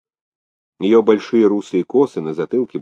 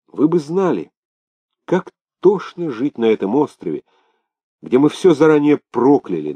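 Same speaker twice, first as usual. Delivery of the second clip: higher-pitched, heartfelt complaint; aggrieved islander; 5 semitones higher than usual. Acted. Islander complaining how sickening life on Sakhalin is, aggrieved. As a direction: pour out loathing for the island, pitched up.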